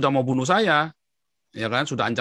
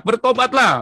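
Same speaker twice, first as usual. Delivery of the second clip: high, loud cry to repent; re-enacted evangelist's yell, pitched way up; street-preacher shout; 11 semitones higher, 6 dB louder than usual. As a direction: imitate yelling at a crowded bus terminal. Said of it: "Di jalan saya teriak-teriak".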